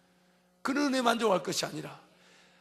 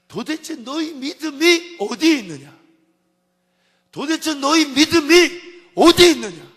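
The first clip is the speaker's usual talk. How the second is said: high, loud and slow rebuke; Jesus reproaching the disciples in the storm, loud and slow; rebuking cry; 7 semitones higher, 16 dB louder, slower than usual. Acted. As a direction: drag out the reproach with full force.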